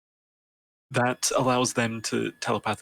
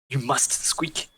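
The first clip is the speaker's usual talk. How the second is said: slow, drawn-out questioning; 3 semitones higher, slower than usual. Acted. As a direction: stretch it out as a tentative question. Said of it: "in a questioning tone".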